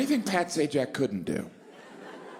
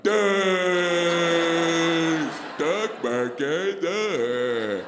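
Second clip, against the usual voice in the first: loud, slow dumbfounded outburst; inner outburst; 3 semitones higher, 4 dB louder, much slower than usual. Retold or imitated. His inner voice, baffled by the stock market, in a loud, slow blurt. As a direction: blurt it out, totally lost. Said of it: "On the inside, I'm like".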